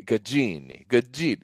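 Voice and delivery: trying Gaggini in an Italian accent; practising an Italian-accented name. Shown as a demonstration. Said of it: "you just say it with a, with an accent".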